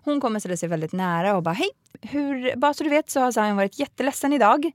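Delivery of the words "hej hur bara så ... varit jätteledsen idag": high, pushy preschool teacher voice; bossy teacher. Retold or imitated. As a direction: mimic the overbearing teacher, higher. Pedagog voiced in retold story. (härmar den påträngande pedagogen, ljusare röst)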